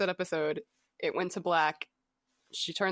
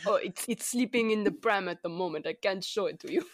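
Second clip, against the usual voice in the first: put-on space German accent. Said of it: "This is our terrible space German accent".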